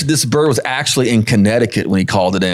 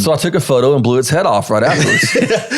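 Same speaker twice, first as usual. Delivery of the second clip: laughing; 3 semitones higher than usual. Real, not acted. Laughing at the punchline.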